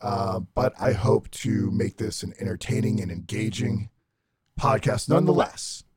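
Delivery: disguised robotic voice. Real, not acted. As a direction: voice masked to sound like a robot. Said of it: "I probably sound like a robot".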